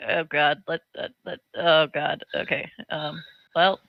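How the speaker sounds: low, hushed fretting; softly stammered acted worry; nervous murmur. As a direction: fret under your breath, halting between phrases. Player voices nervous murmur to Scout.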